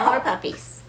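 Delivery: soft unvoiced whisper. Real, not acted. Owner whispering to the rescued dog. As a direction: breathe it as a private aside.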